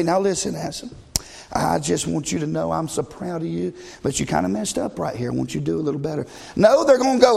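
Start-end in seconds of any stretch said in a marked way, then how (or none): 0.0-6.3 gentle coach. Retold or imitated. Kind coach quote, mocked.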